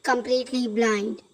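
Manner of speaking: slow, careful textbook reading; reading aloud. Acted. Teacher reading the Happy Prince summary to students, slow and measured. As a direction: read each phrase slowly for the class.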